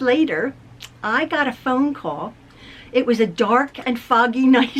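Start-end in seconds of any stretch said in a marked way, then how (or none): 2.9-4.8 laughs through "foggy" on a dark-and-stormy opener; mock spooky storytelling with a laugh. Real, not acted. To viewers, spoofing her chapter book, laughing. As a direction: tease it like a spooky book opening, then break into a laugh. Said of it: "Sounds like a true love story".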